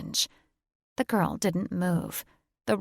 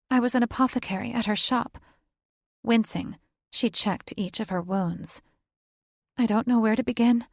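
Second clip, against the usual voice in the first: put-on higher, quick young woman; witch voice; 4 semitones higher than usual. Violet tells Thaddeus who she is, quick and higher. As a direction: rattle it off quickly.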